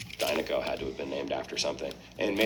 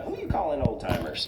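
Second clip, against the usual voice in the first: put-on indignant old car, higher pitch; Lizzie; 7 semitones higher than usual. Old car objects to stranger's greeting, higher character voice. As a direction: lift the pitch, mildly affronted. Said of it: "And she says, uh".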